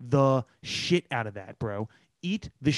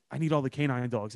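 Philly accent impression; 4 semitones lower than usual. Co-host quoting the TV cop, so-Philly accent. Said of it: "one moment that was so Philly".

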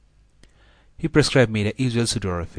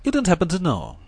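put-on thin, trembling old voice, pitched up; weak quivering voice; 9 semitones higher than usual. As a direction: let the voice waver weakly. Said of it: "in a weak and quivering voice".

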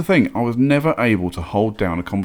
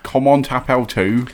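schoolboy French; 5 semitones higher than usual. Shown as a demonstration. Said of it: "Schoolboy French".

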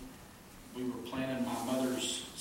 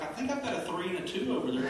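higher, fast and laughing; laughing mom; 7 semitones higher, 4 dB louder, much faster than usual. Retold or imitated. Mom offering wrong candles, laughing while speaking. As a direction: giggle through mom's excuse. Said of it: "My mom's like".

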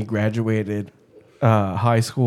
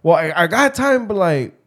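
higher-pitched tipsy backtracking; drunk Mexican caller; 5 semitones higher than usual. Retold or imitated. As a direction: imitate a drunk buddy hedging. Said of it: "Typical drunk Mexican".

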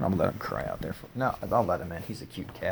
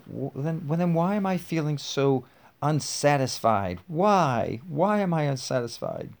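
acted frustration; 5 semitones higher than usual. Acting Sally's frustrated question in dialogue.

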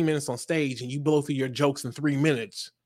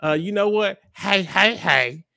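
mock mumble; 3 semitones higher, 5 dB louder, slower than usual. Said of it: "she mumbles under her breath".

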